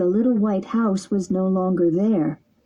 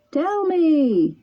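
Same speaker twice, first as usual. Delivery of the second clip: a hint of a calling bird, raised pitch; lightly voiced pigeon; 8 semitones higher than usual. A narrator's reading. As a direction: call down kindly as the pigeon. Pigeon speaks.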